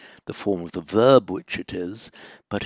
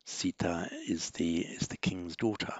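quietly murmured gloss under the breath; whispered aside; 2 semitones lower, 8 dB quieter than usual. Real, not acted. Teacher whispering the translation to the class.

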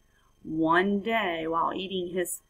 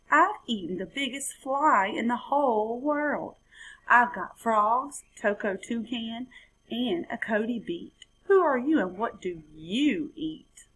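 lightly higher little frog brag; boasting frog; 4 semitones higher than usual. Acted.

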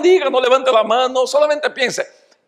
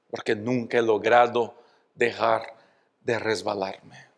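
much softer and lower, a sad retelling; a pastor softly retelling the young man's tears; hushed sorrow; 11 semitones lower, 9 dB quieter than usual. Retold or imitated. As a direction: tell it quietly like a tearful confession. Young man's tearful confession retold.

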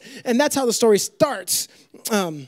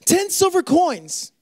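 slow emphasis; 6 semitones higher, slower than usual. Shown as a demonstration. Repeats the phrase slowly for weight.

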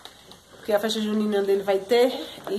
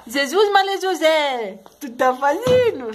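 exasperated exclamation; 3 semitones higher, 4 dB louder, slower than usual. Real, not acted. Mother exclaims at child's antics.

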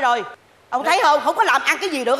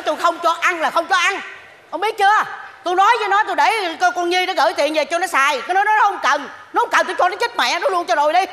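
louder, higher, insisting hard she won't give in; angry scolding; 4 semitones higher, 3 dB louder than usual. Acted. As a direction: scold her husband, raised and firm. Wife angrily refuses husband's plan.

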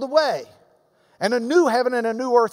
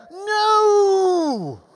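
long, higher shouted no with a crack of feeling; most emphatic shout; 8 semitones higher than usual. Real, not acted. Preacher topping his last no with a full shouted no. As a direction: hold the no out like a cry from the pulpit. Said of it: "Let me be more emphatic".

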